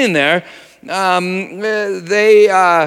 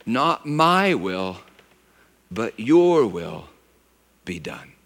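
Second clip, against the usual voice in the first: quiet surrendering prayer; 6 semitones lower, 6 dB quieter, slower than usual. Retold or imitated. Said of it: "Jesus did pray".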